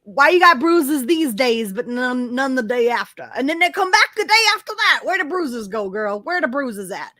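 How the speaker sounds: imitating sassy disbelief, pitch leaping up midway; mock an astonished crowd demanding answers; incredulous onlookers. Everybody questioning Heard's vanishing bruises, mock incredulous. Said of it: "everybody came together and were like".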